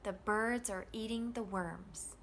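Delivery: BIRDS, EATING, WORMS carry the beat, THE and ARE light; rhythm of content words. Shown as a demonstration. Teacher letting learners hear the rhythm, content words stressed. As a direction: lean on BIRDS, EATING, WORMS, glide over the rest. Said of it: "Can you hear the rhythm and intonation changing".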